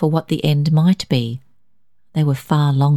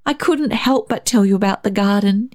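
put-on higher child's voice; earnest child owning up; confessing boy; 5 semitones higher than usual. A narrator's reading. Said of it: "David confessed".

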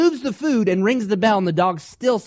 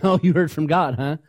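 mocking sneer. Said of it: "like an S N L skit".

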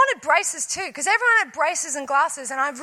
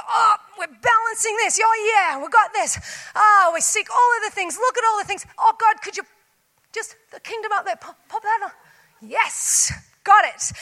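higher, airy mocking voice; mock breezy confidence; 5 semitones higher than usual. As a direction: parody someone sure they have it all. Mocking people juggling everything.

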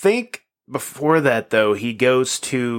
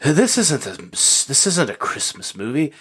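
appalled, higher-pitched and halting; mock indignation; 5 semitones higher than usual. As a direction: act scandalized for laughs, drawing it out. Acting an appalled replacement actor.

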